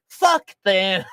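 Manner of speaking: imitated brash outburst; retold defiant bark; mock defiant shout. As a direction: shout it like a friend who won't be hushed. Acting defiant loud friend.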